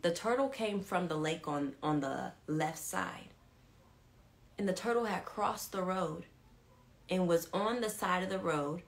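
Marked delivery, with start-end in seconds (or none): 0.0-3.3 slowed down so they get it; slow explanation. Shown as a demonstration. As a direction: spell it out slowly for listeners. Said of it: "I gotta say it slow so you get it".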